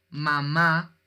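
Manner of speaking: "mamá" drawn out, weight on the final "má"; stress on last syllable. Shown as a demonstration. Teacher showing students an accented last syllable, stressed "mamá". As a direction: lean on the second syllable of "mamá". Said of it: "tiene su acento en la u".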